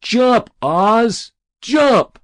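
high, loud urging shout; egging him on. Acted. Boy in the crowd urging Ozzie to jump, loud high shout. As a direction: cheer him on from below.

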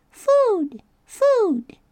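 high, loud chick peep; shrill little food cry; gosling peep. Acted. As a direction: peep it out hungry. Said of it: "That tiny voice".

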